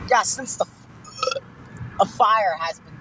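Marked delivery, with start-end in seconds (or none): 0.1-1.4 a burp catches the words, slowed down; burping while talking. Real, not acted. Boy burps mid-sentence on a car ride. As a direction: talk through a burp. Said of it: "Are you burping?".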